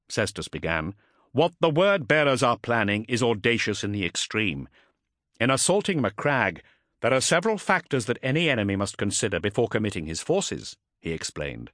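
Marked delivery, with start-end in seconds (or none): 1.3-10.8 lightly voiced commander, raised pitch; a hint of formal briefing; Ultramarine captain addressing council.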